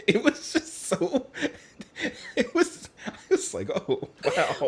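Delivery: playful put-on Irish accent; a quick high Irish lilt. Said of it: "Was that your Irish accent?".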